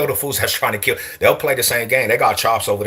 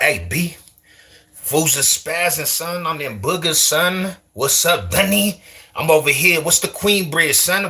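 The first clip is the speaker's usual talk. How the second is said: put-on Queensbridge New York accent, pitched up; 8 semitones higher than usual. Shown as a demonstration. Streamer showing viewers another coast's talk, mock Queensbridge accent. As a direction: lay on high-pitched Queensbridge street talk. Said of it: "What if I talk like that?".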